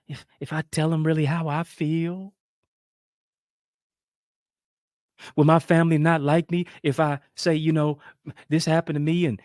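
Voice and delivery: mildly fretful, lifting into a question; anxious people-pleaser. Acted. Speaker voices someone fearful of upsetting family, mildly anxious. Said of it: "Walking on eggshells".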